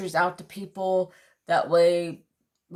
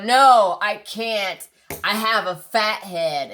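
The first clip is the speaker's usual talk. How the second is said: retold angry refusal; 3 semitones higher, 7 dB louder, slower than usual.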